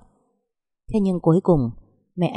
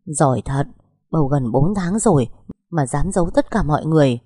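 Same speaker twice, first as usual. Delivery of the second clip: nhẹ nhàng. Acted. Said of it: "nhẹ nhàng nói".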